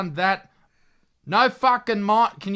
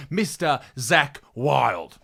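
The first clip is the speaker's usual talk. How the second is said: slow, drawn-out announcer build-up on the name; showman guest announce; 5 semitones lower, slower than usual. Pretend. Host introducing his buddy, slow hammed-up announcer call. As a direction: stretch the name like a ring announcer.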